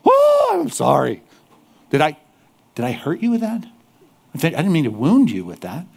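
simpering, overdone sorry; mock apology. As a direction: ham up an over-sorry apology. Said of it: "we wanna say".

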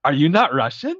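high, rising mock Russian pleading; Bogdan voice. Retelling the van scene, doing Bogdan's confused questions. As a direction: ham up a confused goon asking his friend. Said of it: "Bogdan character".

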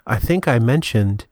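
measured mock public-radio host; NPR host bit. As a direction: play the composed public radio presenter. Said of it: "this is Trek N P R".

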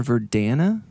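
"Verdana" said ver-DAN-a, A as in "cat"; Verdana with short A. Shown as a demonstration. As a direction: say "Verdana" with a short flat A in the stressed middle. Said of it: "if you pronounce it".

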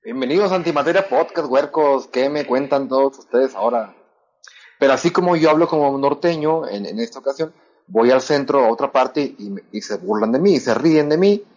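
northern Mexican accent, Monterrey style. Shown as a demonstration. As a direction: talk like a norteño from Monterrey. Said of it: "va a hablar para que escuchen el acento de Monterrey".

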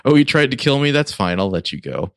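mildly hammed-up nice guy, starting high, easing down; mock forgiving. Host mimics too-nice crime boss, mock forgiving. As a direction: imitate a pushover letting it slide.

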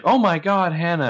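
high mock cry of horror; horrified cry. Recapper imitating friends seeing the body, mock horrified cry.

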